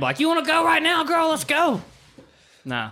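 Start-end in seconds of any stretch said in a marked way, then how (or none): 0.2-1.8 much higher taunting voice; mock challenge. Mock challenging the girl to fight, high squeaky taunt. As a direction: taunt her in a squeaky put-on tone.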